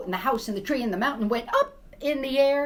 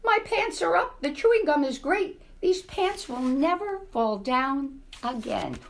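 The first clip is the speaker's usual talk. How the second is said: put-on delighted old mouse; 6 semitones higher than usual. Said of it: "cried the old mouse".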